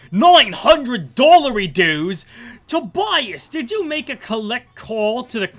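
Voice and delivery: loud, high Aussie outrage; hammed-up Australian dad aghast; mock Australian accent. Fan acting Australian father shocked by the bill, outraged Aussie accent. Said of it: "cut to Australia".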